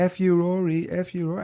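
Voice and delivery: high-pitched chant without real volume; mock crowd scream. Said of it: "And they're all screaming".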